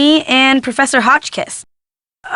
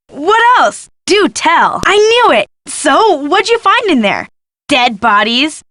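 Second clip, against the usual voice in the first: high-pitched, gossipy excitement; eager prying; 4 semitones higher than usual. Acted. Guest presses detective for what she found, eager and excited. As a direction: pounce on the news, pitch jumping up.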